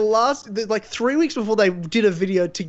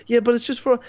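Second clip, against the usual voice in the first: put-on Spanish accent; 5 semitones higher than usual. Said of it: "in a Spanish accent".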